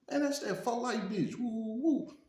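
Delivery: high, heated taunt from a rival; retold hostile shout. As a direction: call out the rival's girl, hammed up. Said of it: "He like".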